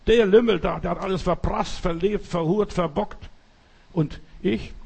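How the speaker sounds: elder brother protesting to father about the wastrel; accusing complaint. Acted. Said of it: "der klagt an und sagt".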